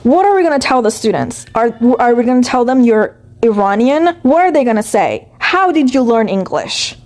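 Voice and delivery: a hint of a stern coworker's disbelief; quoting her coworker. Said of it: "verbatim her, quoting".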